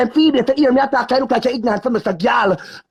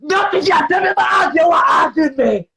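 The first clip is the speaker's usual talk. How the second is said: angry shouting. Real, not acted. Shouting at her partner on a live stream, furious. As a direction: demand she answer, yelling. Heated live argument, repeated demand.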